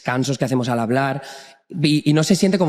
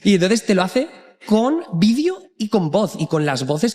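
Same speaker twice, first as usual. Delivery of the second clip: laughing; 5 semitones higher than usual. Real, not acted. Laughs while describing the video.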